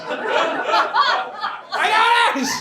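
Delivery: high, squeaky mock rescuer; tiny hero calling out, hammed-up; comic high-pitched reassurance; eager talking body part. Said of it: "my penis is like".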